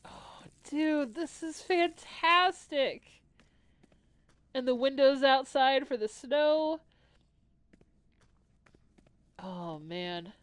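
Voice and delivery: sniffly, teary-eyed nasal voice; a little choked up and nasally. Real, not acted. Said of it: "my voice got a little, got a little nasally".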